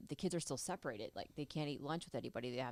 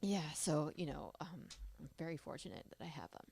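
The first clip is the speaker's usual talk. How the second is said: crying. Real, not acted. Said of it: "sorry I'm crying".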